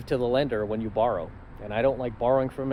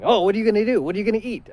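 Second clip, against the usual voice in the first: higher, louder fretting father; worried dad; 8 semitones higher, 6 dB louder, faster than usual. Retold or imitated. Dad worrying what his son will eat, higher and louder. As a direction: fuss like a worried parent.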